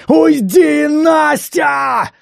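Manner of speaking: slow start, then a huge high scream; furious shout. Acted. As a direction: drive her out the door yelling. Throws her out, shouting.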